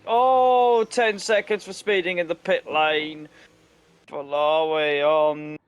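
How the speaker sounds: sharp high gasp into the call; surprised. Real, not acted. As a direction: caught off guard, calling it loud. Penalty announced mid-pit.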